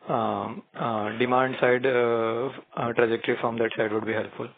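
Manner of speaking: raising the voice so the line carries. Real, not acted. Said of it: "speak loudly?".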